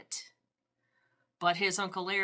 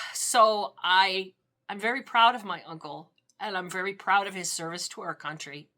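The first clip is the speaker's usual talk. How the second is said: sigh, then push on with feeling; real welling emotion, held together; moved to tears but keeping composure; teary; 3 semitones higher, 5 dB louder than usual. Real, not acted. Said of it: "I'm getting a little teary".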